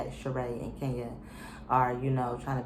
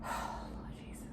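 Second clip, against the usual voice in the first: slow, whispered "Lord Jesus"; drawn-out whisper of exasperation; exasperated whisper; 14 dB quieter, much slower than usual. Real, not acted. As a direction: breathe it out like a weary prayer. Exasperated prayer-like aside.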